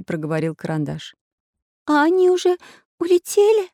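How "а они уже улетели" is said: put-on high, timid girl's question; trembling voice. A narrator's reading. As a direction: ask fearfully, still trembling. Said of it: "всё ещё дрожащим голосом".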